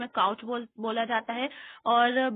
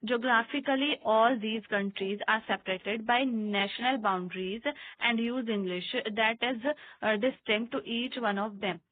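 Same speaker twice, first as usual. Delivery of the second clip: reading aloud; much slower than usual. Acted. Reads English textbook lines aloud.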